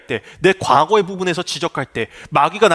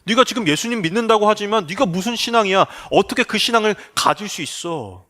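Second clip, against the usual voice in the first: Satan's taunting whisper; 3 semitones higher than usual. Acted. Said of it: "우리에게 속삭여요".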